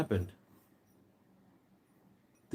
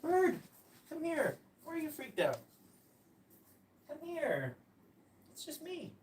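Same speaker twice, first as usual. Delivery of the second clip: high, much softer coaxing; quiet high coo to a scared parrot; 9 dB quieter than usual. Real, not acted. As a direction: gently lure the bird back. Softly coaxing bird back.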